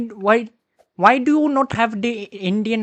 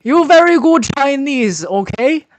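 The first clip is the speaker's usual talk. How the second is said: broken English, put-on Chinese accent; fake Chinese accent; 3 semitones higher than usual. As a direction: play a fake Chinese man. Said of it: "stop the accent".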